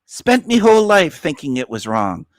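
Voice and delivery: lightly put-on Irish accent; mock Irish accent. Streamer re-reading a viewer's comment, Irish accent. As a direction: read it out in a playful Irish accent. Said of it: "or an Irish accent".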